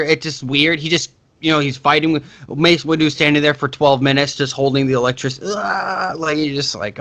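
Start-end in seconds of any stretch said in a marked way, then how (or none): 5.4-6.1 drawn-out imitated "aah", slightly higher; mock straining cry. Mimicking the villain in a long fight, drawn-out mock cry.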